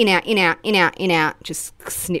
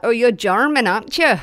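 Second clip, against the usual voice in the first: higher, louder mock accent-spotter; know-it-all guesser; 6 semitones higher, 6 dB louder than usual. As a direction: pipe up like someone guessing accents. Mimics people who guess accents.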